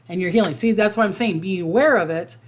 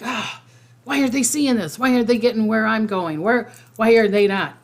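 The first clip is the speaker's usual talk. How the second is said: mock frustration at people who don't get it; frustrated; 2 semitones higher than usual. Pisces complaining about the unattuned, frustrated. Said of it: "you might get frustrated".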